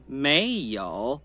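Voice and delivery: "没有" very slow, rising then dipping low; second plus third tone. Shown as a demonstration. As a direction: lift "没", sink "有" low. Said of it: "Segundo e terceiro". ("没有": subindo, depois grave)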